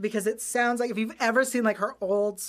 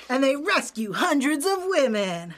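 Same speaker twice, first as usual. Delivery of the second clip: fighting game announcer; 4 semitones higher than usual. Acted. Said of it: "say all the lines in the announcer voice".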